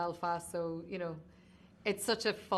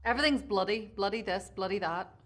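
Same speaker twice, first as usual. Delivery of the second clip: Belfast accent; 3 semitones higher, 6 dB louder, faster than usual. Shown as a demonstration. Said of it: "Look at that, you still got it".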